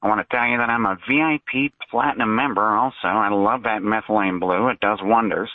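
lightly put-on caller voice, a hint of a character; fake caller voice. Caller on a talk show in a lightly faked voice. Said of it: "It's obvious you're doing a fake voice".

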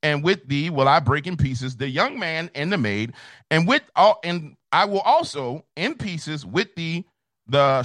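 rolling preacher's cadence, verse by verse; scripture recitation. Acted. Preacher quoting Jeremiah to his audience in pulpit cadence. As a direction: declaim it like a sermon from the pulpit.

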